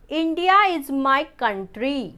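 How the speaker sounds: slow and clear, word by word; slow read-out. Shown as a demonstration. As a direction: read it out slowly for the class. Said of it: "third sentence". (धीमे साफ़ उच्चारण)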